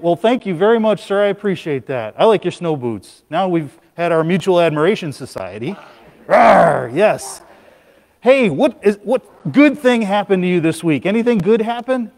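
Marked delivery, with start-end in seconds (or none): 6.3-6.9 playful bear roar. Pretend.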